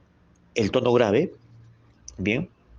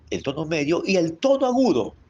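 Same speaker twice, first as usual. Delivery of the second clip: higher pitch; 5 semitones higher than usual. Shown as a demonstration. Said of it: "combinando el tono grave".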